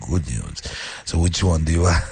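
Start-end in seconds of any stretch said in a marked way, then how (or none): 0.1-0.6 deep, softer good news; uppercase voice. Shown as a demonstration. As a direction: drop good news into a low register. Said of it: "check out the voice change on the last one".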